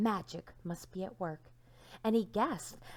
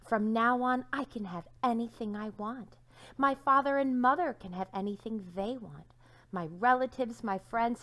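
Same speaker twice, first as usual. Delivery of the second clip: excited plans; 3 semitones higher, 3 dB louder than usual. Acted.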